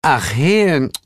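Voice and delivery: high, sweetly reproachful sigh; drawn-out motherly tut; chiding. A narrator's reading. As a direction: scold a cousin gently in a high voice. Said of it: "meinte Ostara tadelnd".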